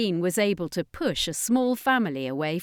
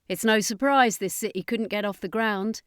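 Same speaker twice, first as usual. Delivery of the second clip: confident alien; 3 semitones higher than usual. Acted. Voiced by the speaker, confident alien.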